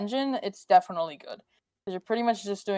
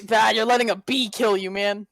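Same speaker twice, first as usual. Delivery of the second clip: cocky taunt. Pretend. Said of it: "you have to be cocky".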